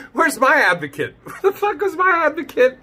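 high, laughing whine of a wronged dad; mocking the father. Reactor mimics the father complaining about no advocate, high laughing whine. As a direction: whine it like a hard-done-by father. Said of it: "He's like".

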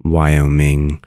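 "Wyoming" said carefully with a ming ending; low, even demonstration of "Wyoming", ending in ming; correct Wyoming. Shown as a demonstration. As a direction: model "Wyoming" as why-oh-ming. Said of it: "You now know how to pronounce".

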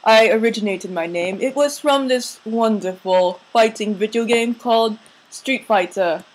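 mock English accent, explaining; put-on English accent. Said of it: "an English accent".

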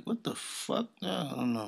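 normal talking voice

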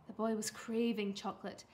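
usual speaking voice

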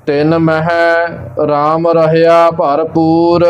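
slow, measured recitation on a level tone; scripture recitation. Acted. Teacher reciting Gurbani for learners, slow measured recitation. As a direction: recite line by line, drawing out the vowels.

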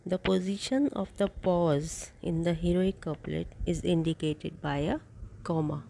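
very slow, even reading for notes; dictating notes to a class; slow dictation. Shown as a demonstration. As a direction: read it out word by word so students can write. Dictates next note.

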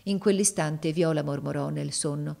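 steady, even storytelling voice; story narration. A narrator's reading. Narrator telling the tale to an audience, in an even reading voice. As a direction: read it like a novel to listeners.

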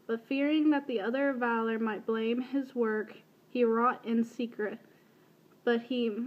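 measured storybook reading, slightly slowed; deliberate literary read-aloud; book passage reading. Real, not acted. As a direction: read it aloud as careful, even narration.

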